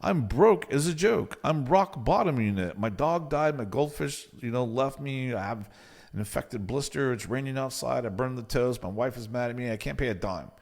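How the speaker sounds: lightly mocking hard-luck plea; mock sob story, only slightly put on. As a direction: imitate a client listing his woes. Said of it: "Sob story, sob story, sob story".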